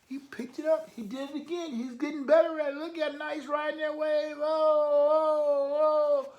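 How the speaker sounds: root for him like a fan at the beach; real delight shouting oh oh oh; excited cheering. Real, not acted. Reader cheers the surfing cat.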